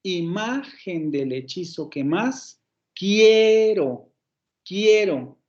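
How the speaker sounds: slow "Imagen del hechizo que más", then punch "quiero"; stress on tenth syllable. Shown as a demonstration. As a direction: hold QUIE long in "quiero". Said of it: "vuelve a caer otra vez el acento".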